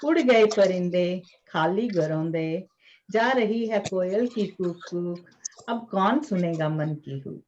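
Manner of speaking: measured, rhythmic verse reading; poetry recitation. Acted. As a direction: recite it line by line, pausing between phrases. Recites own poem at a poetry reading. (कविता पाठ, लय में)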